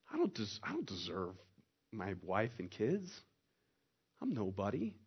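low, soft, halting admission; humbled confession. Acted. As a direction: confess it quietly, feeling unworthy. Churchgoer's humbled inner response to mercy.

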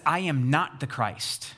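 slow, measured denial leaning on "not"; emphatic denial. Retold or imitated. Preacher voices John answering the religious elite, emphatic denial. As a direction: say it slowly, with weight on "not". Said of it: "the emphatic nots of John".

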